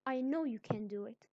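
loud, emphatic encouragement. Shown as a demonstration. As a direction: raise your voice with feeling, as if exclaiming. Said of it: "say it with a louder voice".

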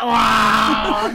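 drawn-out, laughing mock wow; amazed whoop, half laughing; amazed reaction. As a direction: relive the amazement through laughter. Acting his amazed reaction to the punch.

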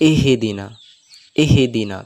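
ইহদিনা with a bounce on the হ, the mistake; ইহদিনা with a wrong qalqala echo; ইহদিনা bounced, as the error; wrong pronunciation. Shown as a demonstration. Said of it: "তো এটাও ভুল".

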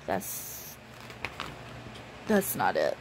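talking through hiccups; words cut by a hiccup. Real, not acted. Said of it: "I got the hiccups now".

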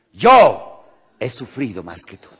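hammed-up martyr voice; mock martyr boast. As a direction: drag it out as if your pain wins. Quoting a competitive sufferer.

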